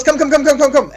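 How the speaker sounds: high, fussy French tailor voice; flamboyant tailor. Acted. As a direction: beckon eagerly, flamboyant couturier. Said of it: "he goes".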